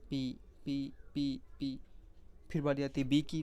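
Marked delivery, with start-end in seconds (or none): 0.1-1.8 पी said softly and lightly, a light P; light P sound. Shown as a demonstration. Teacher dictating light P strokes to students, soft and light. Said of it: "light में, मतलब pencil को हल्का".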